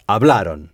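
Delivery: hablaron with the stress landing on -ron; teacher's model of hablaron; model pronunciation. Shown as a demonstration. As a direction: repeat hablaron, leaning on the ending. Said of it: "C'est ça".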